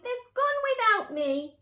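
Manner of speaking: high, loud storybook wail; wailed cry. A narrator's reading. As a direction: cry out at being left behind. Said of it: "And he cried".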